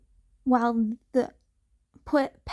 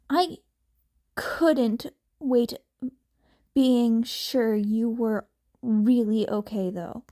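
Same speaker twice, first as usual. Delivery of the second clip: Uraraka, relieved. Acted. Uraraka on phone.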